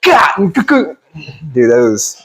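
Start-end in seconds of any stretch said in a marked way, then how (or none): 0.0-1.0 high-pitched cartoon collision noise; cartoon knock effect. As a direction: imitate cartoon heads bonking, up high. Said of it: "it was like a cartoon".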